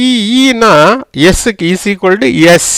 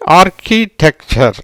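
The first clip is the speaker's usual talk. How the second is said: "ஆர்கிடெக்சர்" fairly slow, more connected; joined-up repeat; slower than usual. Shown as a demonstration. Teacher repeats after asking what it is, "ஆர்கிடெக்சர்" slowly joined up. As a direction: repeat "ஆர்கிடெக்சர்" carefully as one word.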